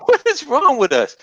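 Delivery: cracking up as you ask it; laughing. Real, not acted. Repeat through laughter.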